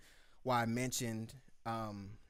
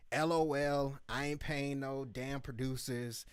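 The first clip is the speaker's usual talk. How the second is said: disrespectful tone. Retold or imitated. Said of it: "the tone to me was pretty disrespectful".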